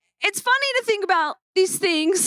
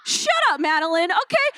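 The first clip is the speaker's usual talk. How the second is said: playful laughing shut-up. Real, not acted. Jokingly telling boss off.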